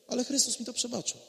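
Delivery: quiet, steady repeat with stress on Chrystus; calm answer. Pretend. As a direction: calmly insist on Chrystus. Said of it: "będziesz mogła spokojnie odpowiadać".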